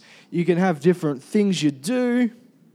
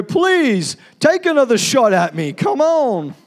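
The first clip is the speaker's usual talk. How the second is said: high, loud mock plea from a rabbit; pleading rabbit; 4 semitones higher, 5 dB louder, slower than usual. Preacher voices rabbit begging hunter, high loud mock plea. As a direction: beg the hunter to shoot again, hammed up. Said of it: "That rabbit is not gonna sit there and go".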